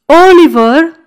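a loud, booming call through the keyhole; deep impressive call. A narrator's reading. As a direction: call his name to impress and intimidate. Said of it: "spuse cu voce groasă și impresionantă". (strigăt gros și impresionant)

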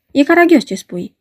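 high, sharp shriek of disbelief; a high-pitched yelp of outrage; shrill cry. A narrator's reading. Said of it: "țipă cu glas ascuțit Rimski".

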